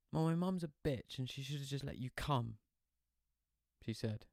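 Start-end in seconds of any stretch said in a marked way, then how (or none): 0.1-2.6 spoilt brat pout. Acted. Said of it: "putting on this kind of spoilt brat pout".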